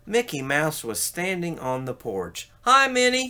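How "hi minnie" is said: shy little high hello. Acted. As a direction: say hi bashfully up high. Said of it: "he said shyly".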